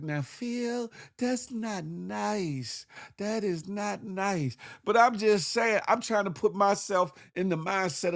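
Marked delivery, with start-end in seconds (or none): 0.0-4.6 scolding audience. Retold or imitated. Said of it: "some of y'all probably like".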